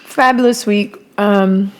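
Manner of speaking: talking while chewing; words round a mouthful of food; mouth full. Real, not acted. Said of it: "talk with my mouth full".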